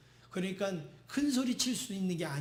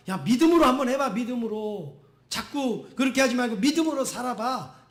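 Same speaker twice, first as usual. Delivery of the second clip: urging encouragement; 2 semitones higher, 5 dB louder than usual. Acted. God urging believers to live by faith, encouraging. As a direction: urge them on without scolding. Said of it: "그거는 우리를 나무라는 게 아니라".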